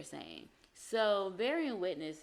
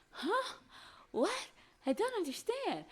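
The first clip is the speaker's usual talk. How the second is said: much higher, baffled mock voice; mock confusion. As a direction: play up being lost, pitched way up. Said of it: "you're just sitting there like".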